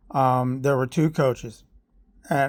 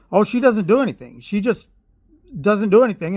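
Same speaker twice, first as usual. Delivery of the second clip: higher-pitched mimicked griping; mocking complaint; 6 semitones higher, 4 dB louder than usual. Coach complaining about the daughter to her dad, mocking imitation.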